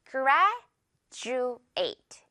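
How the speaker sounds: "graduate" said GRAD-joo-ate, d turned to j; j sound in graduate. Shown as a demonstration. Teacher modelling "graduate" for the class, j sound. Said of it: "이렇게 발음됩니다".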